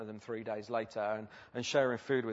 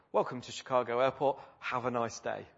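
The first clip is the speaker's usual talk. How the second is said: lightly imitated chirpy captain's welcome; a touch of routine airline cheer; mildly cheery pilot. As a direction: welcome them lightly, as if all were fine. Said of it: "with quite a cheery voice".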